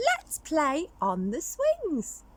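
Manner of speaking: high, slow little skeleton; squeaky little skeleton. Acted. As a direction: stretch it out like an eager small skeleton. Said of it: "said the little skeleton".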